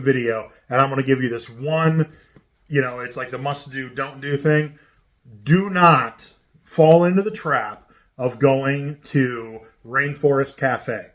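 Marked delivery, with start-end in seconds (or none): 5.4-11.1 slow and deliberate, leaning hard on "fall"; slow emphatic warning. Real, not acted. Host warning viewers, slow and emphatic. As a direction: stress on "fall", drawn out slowly.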